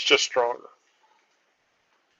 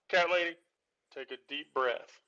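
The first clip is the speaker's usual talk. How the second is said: calming; 5 dB quieter than usual. Real, not acted. Host calming an upset caller.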